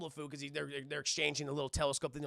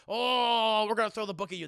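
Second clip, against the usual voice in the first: angry threat; 3 semitones higher, 8 dB louder than usual. Acted. Acts angry Secret Service head.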